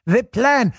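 high-pitched fake French accent; mock French accent. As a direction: mimic a hammed-up French accent. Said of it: "doing a fake Pepe Le Pew-like accent".

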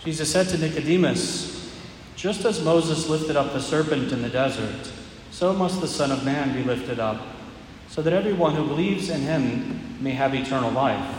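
solemn proclamation, measured pace; Gospel reading. Acted. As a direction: proclaim it from the ambo.

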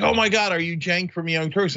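excited fan. Retold or imitated. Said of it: "he's like".

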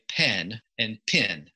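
"pen" and "pin" carefully kept apart; short E in "pen", short I in "pin"; very particular pronunciation. Shown as a demonstration. Podcaster taking care over a merged pair, precise vowels. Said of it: "I have to be very particular when I'm pronouncing it".

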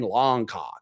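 Longcock with an open AH vowel; American Longcock. Shown as a demonstration. Showing the American vowel in Longcock. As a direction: Longcock said lɑŋkɑk. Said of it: "It's more like A, A H N".

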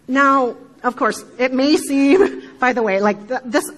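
laughing. Real, not acted. Laughs at own speech.

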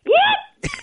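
very high sportscaster whoop; high, whooping catchphrase impression; Chris Berman. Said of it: "one of those Chris Berman".

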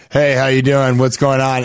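lightly imitating a man's voice; regular guy's voice. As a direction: drop into a regular dude voice, lightly. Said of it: "just in a regular guy's voice".

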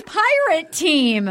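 slow, stretched team cheer; mock an awkward rallying cry; drawn-out mock cheer; awkward mock scream. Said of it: "such an awkward thing to scream".

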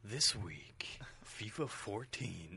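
dramatic announcer voice. Pretend. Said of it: "Can you two do it in a dramatic announcer voice?".

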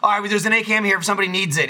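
hamming it up. Retold or imitated. Imitating teammate offering a gun in game, hammed-up helpful call-out. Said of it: "he was hamming it up like".

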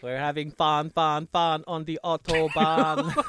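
put-on sing-song German accent. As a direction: chant it in a hammy German accent. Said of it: "a German accent".

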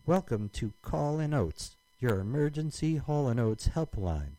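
slow, high, robotic menu recording; automated phone voice. Retold or imitated. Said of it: "a female computerized voice that says".

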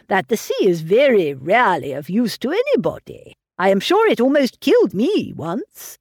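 lightly voiced fussy old father, fretting over his daughter; a hint of a doting, anxious old man pressing gruel. Mr Woodhouse lecturing about sea.

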